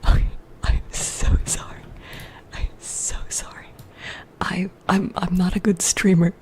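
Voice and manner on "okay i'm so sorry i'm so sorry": apologetic whisper; ASMR whisper. Real, not acted. Streamer apologizing to chat, whispered.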